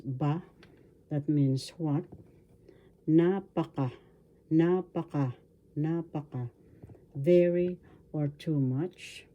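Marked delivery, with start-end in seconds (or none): 3.1-6.5 napaka repeated with NA stressed; stress on first syllable. Shown as a demonstration. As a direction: say napaka, falling away from an accented first syllable. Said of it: "The accent is in the first syllable".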